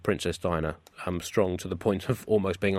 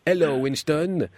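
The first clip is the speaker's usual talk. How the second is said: Frenchly; 4 semitones higher, slower than usual. Acted. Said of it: "said the decapitated Queen Frenchly".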